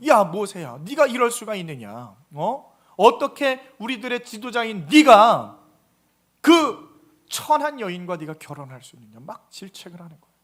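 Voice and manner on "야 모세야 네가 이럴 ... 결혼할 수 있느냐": rising, louder reproach toward Moses; scolding rebuke. Acted. Aaron and Miriam scolding Moses over his marriage, angry rebuke. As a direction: scold him like an elder brother.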